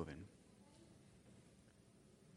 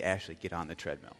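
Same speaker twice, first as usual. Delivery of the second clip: serious; 4 semitones lower, 5 dB quieter than usual. Retold or imitated. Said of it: "now she knows I'm serious".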